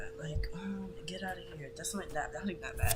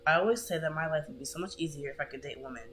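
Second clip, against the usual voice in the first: sarcastic; faster than usual. Retold or imitated. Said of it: "she really sarcastically said that".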